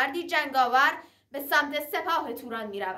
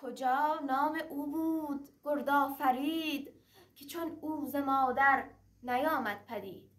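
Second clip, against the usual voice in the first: raised rhythmic verse chant; epic teahouse storyteller; 2 semitones higher than usual. Acted. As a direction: declaim it like a Persian naqqal. Shahnameh verse recited between prose. (نقالی حماسی با آهنگ شعر)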